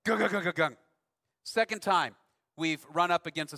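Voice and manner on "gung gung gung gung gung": mock engine thud. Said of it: "I heard the noise again".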